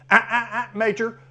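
high warning ah ah; sharp correction. Shown as a demonstration. Trainer warning his dog before it acts up. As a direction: cut the dog off mid-move. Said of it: "correct within a second".

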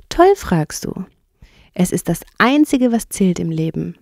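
cheerful water rat, lightly lifted; fröhlich. Acted. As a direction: answer with happy emphasis. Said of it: "sagte die Wasserratte fröhlich". (fröhlich und betont)

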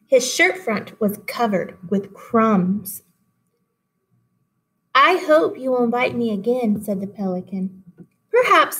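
put-on lively read-aloud for children; story reading. A narrator's reading. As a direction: read the fable to the class, animated. Teacher reads fable aloud.

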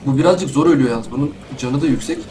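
ordinary talk, nothing marked

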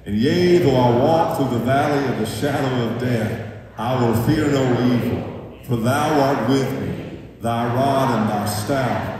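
slow, declaiming King James psalm aloud. Acted. Congregation recitation led loudly.

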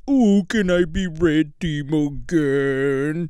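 low, slow simpering mockery; mimicking the friend begging to return; mocking whine. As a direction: grovel in a mocking voice. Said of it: "come back to the homies like".

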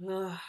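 short hollow groan; low-key "ugh" groan. A narrator's reading. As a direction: give an understated groan of dismay. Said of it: "came a hollow groan".

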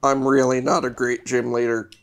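depressed vampire voice. Acted. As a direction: sound like a sad, tired vampire. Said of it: "like, a vampire voice?".

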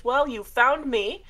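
a hint of a courtly ghoul; mild spooky butler voice; lightly voiced shade. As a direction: greet them like a polite host of the dead. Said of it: "he bows deeply and he goes".

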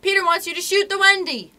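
high, loud fairy command; ringing reply. A narrator's reading. Tink ordering the boys to shoot, ringing cry. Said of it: "Tink's reply rang out".

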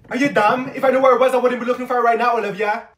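sarcastic loud snap; irritated snap. Acted. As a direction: bite her head off. Snapping at friend over ring.

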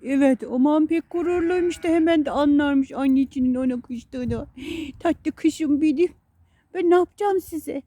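high, sing-song pet talk. Real, not acted. Baby talk to her dogs.

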